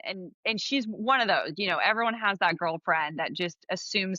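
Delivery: low creaky vocal fry. Real, not acted. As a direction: let the voice crackle into fry. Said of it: "I thought you're like vocal fry?".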